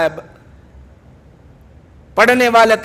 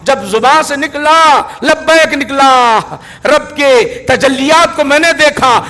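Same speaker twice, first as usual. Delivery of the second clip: preaching climax; 3 semitones higher, 3 dB louder than usual. Acted.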